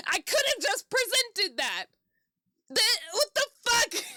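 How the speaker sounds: high, slow, outraged rant at the game; pissed off. Real, not acted. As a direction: drag out each outraged word, high. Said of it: "I'm so pissed".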